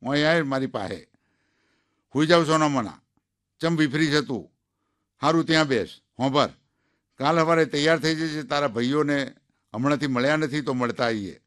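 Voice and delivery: a lightly voiced old villager giving orders; old man calling his wife. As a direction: summon the old wife firmly, a touch loud.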